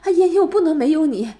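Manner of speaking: lightly voiced pathetic ex; mocking his plea. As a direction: parody his desperate begging. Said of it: "还说什么".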